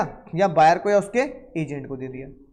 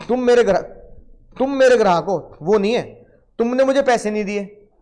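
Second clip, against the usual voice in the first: insistent; 3 semitones higher, 5 dB louder than usual. Acted. Teacher insists to student.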